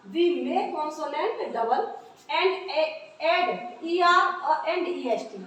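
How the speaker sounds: slow, deliberate dictation of an English rule; dictating a rule. Shown as a demonstration. Teacher dictating the rule to the class, slow and deliberate. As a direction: read each word out slowly so pupils can write it.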